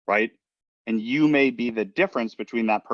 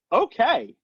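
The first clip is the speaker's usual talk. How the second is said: high, strained, unhappy "Okay"; 3 dB louder than usual. Shown as a demonstration. Caller answering the phone while having a tough day, strained "Okay". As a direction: let "Okay" betray a bad day. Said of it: "And they're like".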